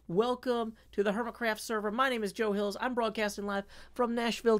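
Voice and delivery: broadcast welcome. Real, not acted. Streamer greeting Pearlescent Moon's raiders, announcer-style welcome.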